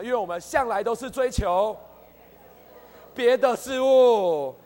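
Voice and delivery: preacher pressing the point; stress on 别的事物. Shown as a demonstration. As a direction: lean hard on 别的事物, stretching each syllable. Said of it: "需要把那个重点圈起来".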